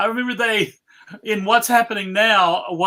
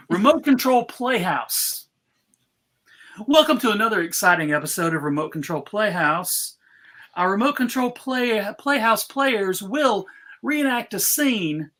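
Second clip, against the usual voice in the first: game show host voice. Acted. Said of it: "my game show voice".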